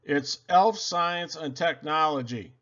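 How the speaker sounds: a touch of proud Santa exclamation; lightly exclaimed by Santa. Acted. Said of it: "Santa exclaimed".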